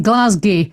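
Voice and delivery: Glasgow said as GLAZ-gee; wrong Glasgow pronunciation. Shown as a demonstration. Host owns up to a mistake, Glasgow as GLAZ-gee. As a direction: end Glasgow on a "gee" sound. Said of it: "I've been told off, uh, for saying".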